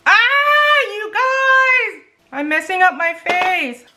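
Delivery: high, loud scream easing into a wail; frustrated wail. Real, not acted. To viewers about messing up her face, frustrated wail. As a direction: wail it in exasperation. Wailing over ruined makeup.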